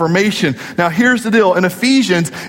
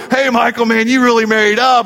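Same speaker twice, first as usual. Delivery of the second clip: buddy's teasing compliment; 4 semitones higher, faster than usual. Retold or imitated. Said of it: "I have friends that they go".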